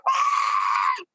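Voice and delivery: high, breathless mock animal scream; storyteller mimicking a screaming deer, high and airy. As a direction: imitate the shot deer shrieking. Deer screaming after shot.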